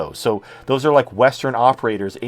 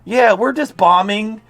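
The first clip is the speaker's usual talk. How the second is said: mock innocent voice; 7 semitones higher than usual. Mock innocent denial continues.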